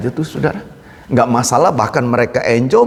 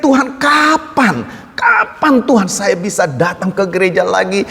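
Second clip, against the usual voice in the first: crying out to God; 5 semitones higher than usual. Retold or imitated. Churchgoer crying to God about returning to church, high pleading cry. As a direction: cry out kapan in anguish, very high. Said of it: "Jadi dia menjerit".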